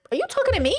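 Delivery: high-pitched, incredulous challenge; exaggerated high "who, me?" indignation; mock affronted. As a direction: act out being offended at being addressed. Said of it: "all of us are gonna be like".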